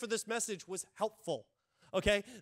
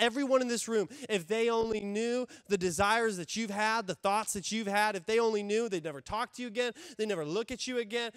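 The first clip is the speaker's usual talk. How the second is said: accuser; 4 dB louder than usual. Acted. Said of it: "the enemy".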